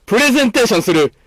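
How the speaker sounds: slow, showy corner announcement; announcer voice. Acted. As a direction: announce it like a radio host.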